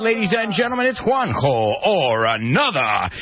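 high, stretched-out show intro; radio show announcer. Acted.

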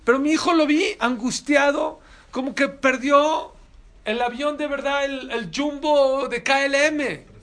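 más alto, casi gritando, alargando el final; énfasis fuerte. Real, not acted. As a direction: sube la voz para pintar la angustia. Enfatiza la angustia del hijo. (predicando con fuerza y lentitud)

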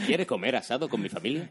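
mock dubbed-American Spanish invitation; Spanish dubbing accent. Friendly American inviting a visitor to dinner, in Spanish dubbing accent. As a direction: parody an over-friendly film-dub voice. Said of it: "el acento del doblador español".

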